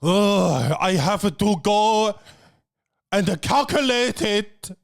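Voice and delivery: mock-burdened waitress; sulky complaint; whiny hostess. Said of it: "She's like".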